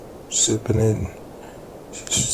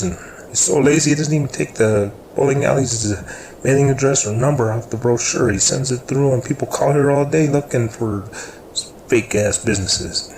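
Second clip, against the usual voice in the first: higher, louder complaint in a coworker's voice; acted-out fed-up rant; exasperated griping; 5 semitones higher, 5 dB louder than usual. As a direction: gripe about a lazy colleague, raised voice. Oscar's complaint about stupid brochures.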